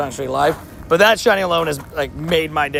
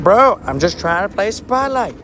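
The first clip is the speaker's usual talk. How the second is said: exasperated plea; 5 semitones higher, slower than usual. Retold or imitated. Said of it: "And I'm like".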